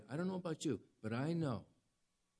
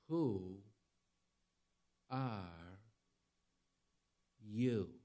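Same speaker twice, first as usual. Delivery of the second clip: low, very drawn-out words with long pauses; slow, low, languid questioning; caterpillar impression; 4 semitones lower, 4 dB quieter, much slower than usual. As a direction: puff out each word slowly like the smoking caterpillar. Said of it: "it's like the caterpillar in".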